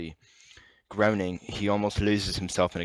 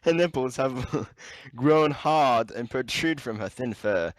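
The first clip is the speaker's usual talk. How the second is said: hammed-up fake British read; 4 semitones higher than usual. Reading in put-on voice, laughing.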